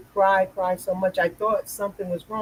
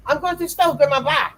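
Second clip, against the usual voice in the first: put-on high little girl voice, chirpy; 8 semitones higher than usual. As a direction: sing it out like a proud small girl.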